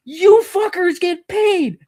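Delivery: slow angry emphasis. Real, not acted. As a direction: spell out the outrage word by word. Ranting at critics.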